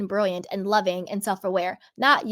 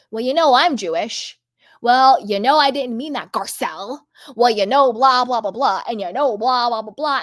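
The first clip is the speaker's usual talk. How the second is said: louder, dismissive mock excuse; mocking Dorit; 4 dB louder than usual. Mocking Dorit's excuses to Garcelle, louder and dismissive. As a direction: brush it off with a hammed-up shrug. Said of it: "she has to be like".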